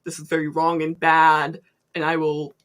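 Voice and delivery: imitating an Italian accent, lightly scolding; mock papal scolding with a hint of Italian accent; Mario-like Italian accent. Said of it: "in, like, a Mario accent".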